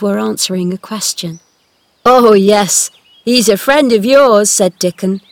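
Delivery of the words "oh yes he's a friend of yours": put-on cheerful country boy. Dickon voiced in story.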